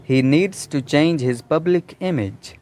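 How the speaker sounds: a deliberate dictation pace; slow example sentence. Shown as a demonstration. Teacher reading a model sentence slowly to students. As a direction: read slowly, every word clear. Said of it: "उसको अपनी public image".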